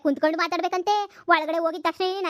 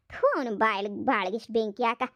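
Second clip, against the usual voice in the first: disgusted spit; 6 semitones lower than usual. Acted. In-law spits contempt at the son.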